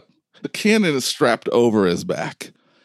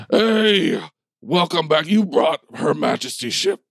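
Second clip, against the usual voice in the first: lightly voiced bulldog commander, a little higher; giant bulldog leader; 5 semitones higher than usual. Bulldog hails the returning crew, lightly acted commander. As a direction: greet them as a bulldog in command. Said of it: "This giant bulldog comes closer. He says".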